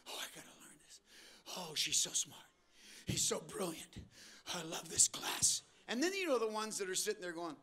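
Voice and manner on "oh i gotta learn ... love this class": soft, breathy gush of a teacher's pet; mock eager student. Preacher mocking keen students, soft fawning gush.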